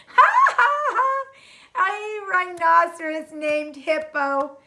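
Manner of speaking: loud, high cackling laughs then the words still laughing; Fluffy howls at the rhino's name; howling laughter. Acted. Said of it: "He howled with laughter".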